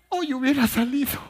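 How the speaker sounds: high, loud laughing shout; shouted punchline. Acted. Husband telling his wife he'd be out of jail today, laughing shout. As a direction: blurt it out, half laughing.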